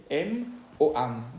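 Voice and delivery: "M o am" with the final M closed and audible; sounded M. Shown as a demonstration. Teacher contrasting with nasal vowel, fully sounded M. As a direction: close the lips on each M in "M o am". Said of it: "se va a pronunciar M".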